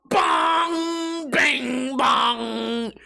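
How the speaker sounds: clanging sound effect voice; mock metal bong. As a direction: imitate skateboard hitting steel. Imitating metal grind noise.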